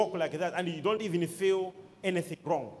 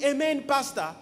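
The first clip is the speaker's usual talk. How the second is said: raised-pitch congregant's call; imitated shouting; 5 semitones higher than usual. Woman interrupting the preacher from the congregation, imitated shouting. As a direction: mimic her calling out, without full volume. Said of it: "she was shouting".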